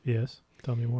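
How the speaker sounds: low, put-on interest; insincere, distracted encouragement; pretending to pay attention. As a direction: feign interest while busy with something else. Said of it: "that's me pretending to pay attention".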